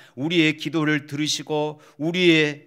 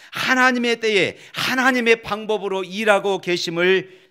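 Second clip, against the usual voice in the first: forceful preaching; 3 semitones higher, 5 dB louder than usual. Real, not acted.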